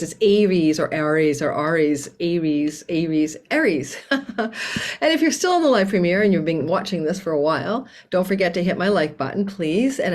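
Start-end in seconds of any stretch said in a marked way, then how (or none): 0.0-4.0 Aries as AY-reez, AIR-eez, then AR-eez; varied Aries pronunciations. Retold or imitated. Astrologer imitating how some people say Aries, varied pronunciations. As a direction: run through Aries with a changing first vowel: AY, AIR, AR. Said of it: "I love how some people say Aries".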